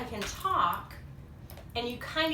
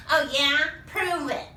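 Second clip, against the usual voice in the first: loud, higher challenge; Mogo; 3 semitones higher, 5 dB louder than usual. Acted. Monster demanding proof after being contradicted, loud challenge. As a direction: throw down a defiant challenge. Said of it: "says Mogo".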